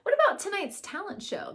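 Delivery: high, quick, eager fans' question. Acted. Fans asking Beatrice about the show, high and quick. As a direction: ask it like excited fans.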